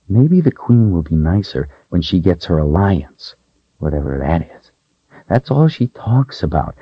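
put-on a frightened young servant girl, hushed and hoping. Voices young Rachel in story.

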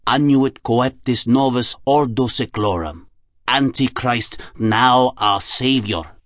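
put-on slow German-accented incantation; deliberate German-accented recital with long pauses. A narrator's reading. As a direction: intone each name slowly in a German accent. Jung recites codes in character.

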